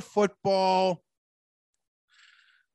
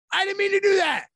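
much higher, louder put-on yell; mock shout; 12 semitones higher, 5 dB louder, faster than usual. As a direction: yell the apology like a cartoon. Quote repeated, now yelled.

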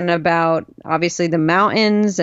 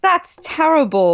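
mock British; 5 semitones higher than usual. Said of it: "I was like".

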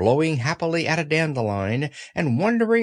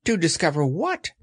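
mildly worried little creature; understated nervous question; Piglet, anxious; 3 semitones higher than usual. Acted. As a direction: ask with a touch of unease. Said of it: "said Piglet anxiously".

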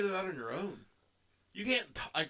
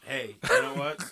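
playful outburst; 3 dB louder than usual. Real, not acted. Jumps in playfully on Cody.

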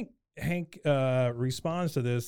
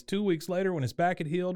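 mock narrator; 5 semitones higher than usual. Retold narrator, pitched up.

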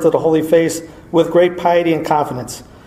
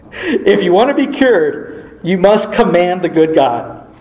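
laughing; 2 semitones higher, slower than usual. Real, not acted. Laugh on the line.

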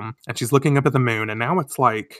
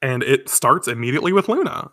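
ordinary talk

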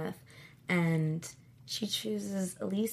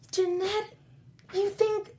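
much higher and louder, disbelieving; incredulous outcry; 13 semitones higher, 8 dB louder than usual. Retold or imitated. Reassuring her cousin about his mother, loud incredulous outcry. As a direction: shout out your disbelief that he'd fear his mother.

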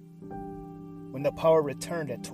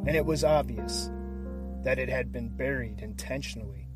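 hushed, dramatic true crime narration; suspenseful crime show narrator. A narrator's reading. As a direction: build suspense like a crime documentary. Dramatic cold open over music.

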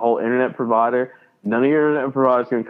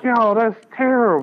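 mock appalled; 9 semitones higher than usual. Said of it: "I was like".

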